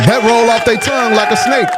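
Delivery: punchline shouted with force. Real, not acted. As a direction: yell it out to drive the point home. Repeats the line, shouting it.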